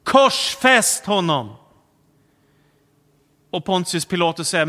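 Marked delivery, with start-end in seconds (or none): 0.0-1.6 slow, louder crowd cry of "Korsfäst"; drawn-out call, "Korsfäst" stressed. Retold or imitated. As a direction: call it out as the crowd demanding death. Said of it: "Då ropar folket".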